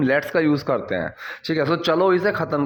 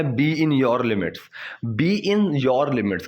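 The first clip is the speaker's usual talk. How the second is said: very slow, careful teacher reading; slow model sentence; much slower than usual. Shown as a demonstration. Teacher to students, slow clear model sentence. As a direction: lay out each word for learners. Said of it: "teacher models phrase".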